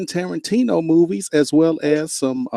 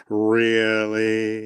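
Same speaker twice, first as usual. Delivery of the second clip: long, low, softer drawn-out really; mock incredulity; 5 semitones lower, 5 dB quieter than usual. Shown as a demonstration. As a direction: stretch it out softly in teasing disbelief. Host mimics a reaction at her.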